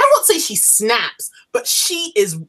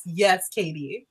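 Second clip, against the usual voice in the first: softer, slower, heartfelt agreement; soft, slow yes; 6 dB quieter than usual. Real, not acted. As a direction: let it drop quietly and slowly. Agreeing again, more softly.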